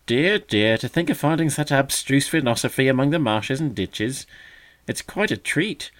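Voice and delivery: loud, high teasing mock gravity; mock solemn. A narrator's reading. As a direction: play at great seriousness to tease. Magpie teasing the young bird.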